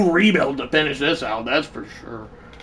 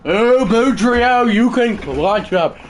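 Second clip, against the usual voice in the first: urging on; 2 semitones higher, 4 dB louder, slower than usual. Real, not acted. Cheering on his batter in game.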